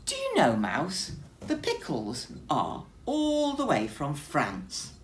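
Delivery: high loud opening then proud boast; lightly voiced grand bear; declaring bear. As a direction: boast about the pickles. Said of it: "declared Bear".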